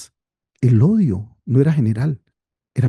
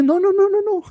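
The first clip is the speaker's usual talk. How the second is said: firm refusal. Acted. David refusing his officers.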